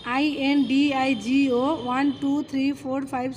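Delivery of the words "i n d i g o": letters of I N D I G O, each said separately; spelled letter by letter. Shown as a demonstration. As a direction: spell out I N D I G O one letter at a time. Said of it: "Indigo means".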